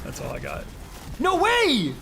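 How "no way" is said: high, loud burst of disbelief; a sudden shout of surprise; shocked no way. Real, not acted. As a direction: blurt it out, stunned. Sudden reaction while streaming.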